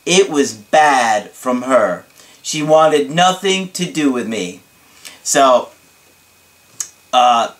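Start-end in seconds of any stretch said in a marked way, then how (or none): 0.1-4.6 slow emphasis on the bad news; dramatic client imitation. Client recounting his ex's rejection, dramatic and emphatic. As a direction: dwell on each blow dramatically. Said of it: "this is the way he said it to me".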